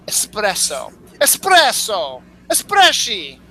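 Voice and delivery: mock Italian accent, rising in pitch and flourish. Shown as a demonstration. Host showing the coffee word is Italian, mock Italian accent. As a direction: ham up an Italian accent, bigger each time. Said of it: "It's Italian".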